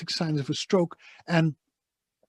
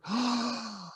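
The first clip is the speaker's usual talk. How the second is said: sharp gasp for air; huge gasp for air; 7 semitones higher, 6 dB quieter than usual. Retold or imitated. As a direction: gasp like a diver surfacing. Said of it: "their first breath of air is like".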